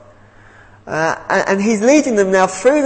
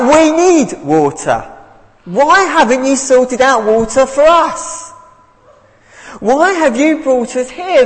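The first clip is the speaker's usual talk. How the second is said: raised, demanding complaint; mock shouting match; 4 semitones higher than usual. Israelites shouting at Moses, a mock angry demand. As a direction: play the grumbling crowd shouting at their leader. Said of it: "it could have gone something a bit like this".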